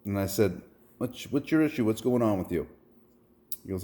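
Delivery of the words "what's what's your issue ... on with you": higher-pitched, retold concerned question. Driver asks the man his trouble, concerned. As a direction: ask a stranger what's wrong, voice raised.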